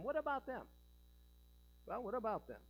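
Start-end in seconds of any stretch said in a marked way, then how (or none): 0.0-0.6 high-pitched, insistent mock objection; imagined objector. Preacher voicing those who want English worship, mock objection. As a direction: push the question up high, as an objector. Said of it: "But some might say".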